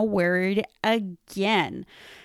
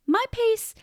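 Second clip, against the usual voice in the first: laughing on pace; 4 semitones higher than usual. Real, not acted. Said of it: "my pace is absolutely not".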